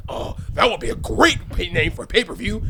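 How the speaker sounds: hint of a rough, grody boss voice; Vince McMahon. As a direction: lightly imitate a rough-voiced wrestling boss. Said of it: "that's a great Vince McMahon impression".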